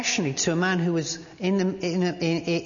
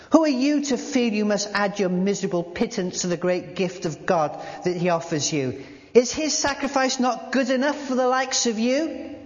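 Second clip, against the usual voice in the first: rising anger; 6 semitones higher than usual. Acted. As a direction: scold him with growing anger. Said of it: "I found my anger increasing".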